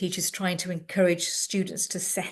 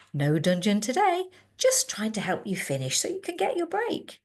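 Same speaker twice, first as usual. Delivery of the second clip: very calm; 2 semitones higher than usual. Retold or imitated. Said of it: "very calmly said".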